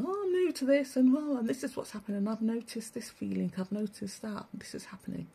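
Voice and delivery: high, quick imitation of an eager newbie; mock newcomer voice. Mocking online newcomers describing awakening, high mimic voice. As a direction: squeak out their excitement, fading to a hush. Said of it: "to people saying".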